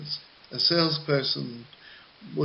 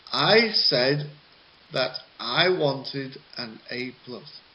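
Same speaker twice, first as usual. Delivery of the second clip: "said" stressed, the I before it light. Shown as a demonstration. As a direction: lean on the word said. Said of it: "where the stress words are".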